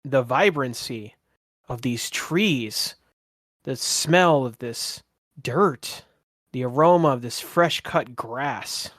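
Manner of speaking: slow, savoring description with long pauses; game master's narration. Acted. Game master listing beautiful trees and smells, slow savoring narration. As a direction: dwell on each sight and smell.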